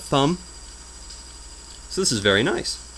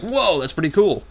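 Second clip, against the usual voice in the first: retold impressed reaction; 6 semitones higher than usual.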